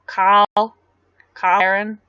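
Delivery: Australian "Carl Barron", R dropped from Carl; Australian accent. Shown as a demonstration. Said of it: "when I said Kyle Barron".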